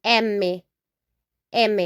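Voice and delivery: M said as Spanish eme; teacher naming M in Spanish; Spanish letter name. Shown as a demonstration. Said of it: "we say".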